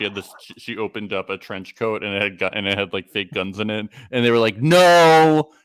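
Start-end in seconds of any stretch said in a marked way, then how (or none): 4.6-5.5 loud, higher, drawn-out Noooo; mock exasperated shout. Crew refusing her prop guns, mock exasperated shout.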